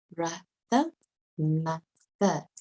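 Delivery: "Brother, mother" split after a short uh vowel; short UH sound. Shown as a demonstration. Teacher showing the sound O makes, syllables apart. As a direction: break "Brother" and "mother" into two syllables each. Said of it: "which makes the A sound".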